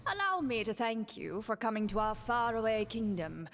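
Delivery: lightly voiced courtly minister, measured; a hint of a scheming prime minister; smooth minister. Minister speaks for the king.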